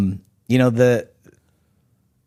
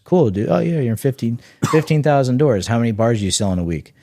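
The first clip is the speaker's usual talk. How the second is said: higher, breezy buyer asking fast; mock buyer voice; 5 semitones higher than usual. Buyer quizzing a brand on weekly sales, breezy and higher. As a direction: toss the question off like an unimpressed buyer.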